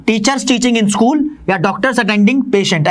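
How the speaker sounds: very slow, word-by-word examples; slow dictation. Shown as a demonstration. (धीमे-धीमे उदाहरण लिखवाते हुए)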